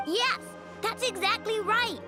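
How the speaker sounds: high-pitched, eager confirmation; emphatic agreement. Acted. Confirming her robot was stolen, emphatic.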